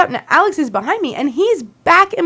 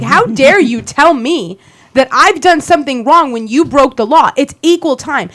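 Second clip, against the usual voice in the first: louder indignant retort; retold yelling back; 4 dB louder than usual. To Scott in her face, mock yelling back. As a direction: yell it back at him. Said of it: "I'm yelling right back at him".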